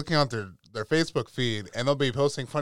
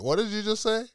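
high, incredulous mock-mom voice; imitating a mother who can't believe it; outraged mom; 10 semitones higher than usual. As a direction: climb sharply in pitch, scandalized. Retold mom's outraged reply.

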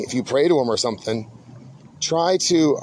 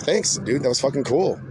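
easy, offhand thanks, dude; casual thanks. Shown as a demonstration. Showing how to thank the gods, relaxed and casual. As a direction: thank God like a buddy. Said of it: "Just be like".

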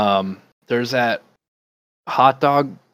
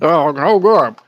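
louder, more exaggerated grudging praise; hammed-up reluctant convert; 5 semitones higher, 7 dB louder, slower than usual. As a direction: overplay the grudging "no good". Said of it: "And they're like".

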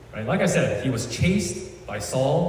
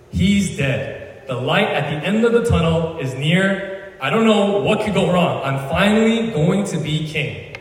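so excited; 4 semitones higher than usual. Retold or imitated. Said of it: "like, so excited".

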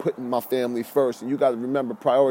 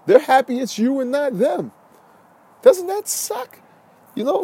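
heated rant; 10 semitones higher than usual. Real, not acted. Ranting about harsh truth.

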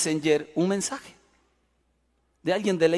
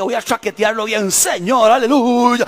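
rising, louder charismatic cry; getting ready to pray hard over the hooded man, louder and rising; fervent prayer; 3 semitones higher, 5 dB louder than usual. Retold or imitated. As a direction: pray with full fire.

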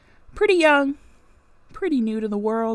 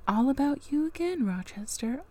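snarky aside; 3 semitones higher, 5 dB quieter than usual. Real, not acted. Reader scolds Rochester's self-pity, stressing "again" with scorn. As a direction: scoff it, landing hard on "again".

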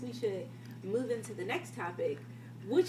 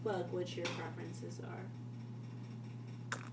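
drawn-out dismissal; 8 dB quieter, slower than usual. Acted. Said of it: "I promise you".

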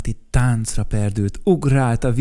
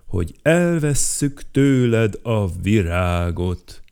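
stern announcement; 4 dB louder, slower than usual. Acted. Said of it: "mondta Bruckner Siegfried".

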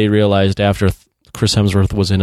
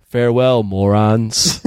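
imitating an innocently sincere goodbye; earnest farewell; slower than usual. Thor to the crew, thinking it's their name, earnest farewell. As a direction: say it as a kindly meant farewell, lifting at the end. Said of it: "he says it so earnestly".

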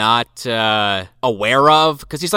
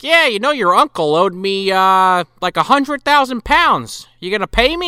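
demanding creditor mayor; 5 semitones higher than usual. Retold or imitated. Acts mayor demanding debt payment.

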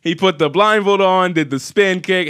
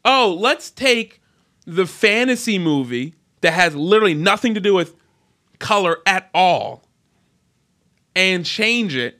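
mock studio exec; 2 semitones higher than usual. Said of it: "when they decide".

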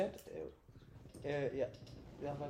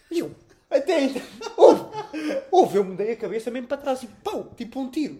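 loud and higher, laughing through it; loud laughing recount; laughing, loud telling; 10 semitones higher, 14 dB louder than usual. Real, not acted. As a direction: burst out laughing at the memory. Retelling the shock of the air puff.

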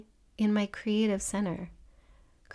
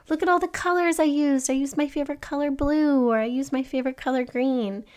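put-on higher, proud kid voice listing colors; excited child; 4 semitones higher than usual. A child tells a parent about the colors used, higher and proud. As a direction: show off every crayon you used.

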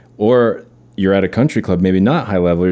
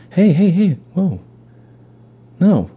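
coach voice; 11 semitones higher than usual. Retold or imitated. Brother in coach voice stopping her. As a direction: stop her like a bossy ball coach. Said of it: "like he's Vince Vaughn".

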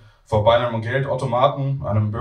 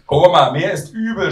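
raised, louder plea to granny; shouting back; 6 semitones higher, 6 dB louder than usual. Acted. Queasy grandson to hard-of-hearing grandmother, raised shout. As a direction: shout so she finally hears you. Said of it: "schrei ich".

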